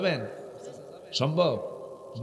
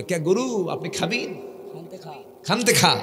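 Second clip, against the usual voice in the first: Bogura dialect. Retold or imitated. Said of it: "মহিষ গরুকে বলে".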